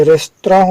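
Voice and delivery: रेस्तरां said as restraan, nasal end; correct pronunciation. Shown as a demonstration. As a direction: say रेस्तरां as restraan, not restaurant. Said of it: "इसका उच्चारण हिंदी में".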